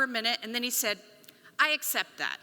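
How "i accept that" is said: calm acceptance. Retold or imitated. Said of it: "like something had been offered".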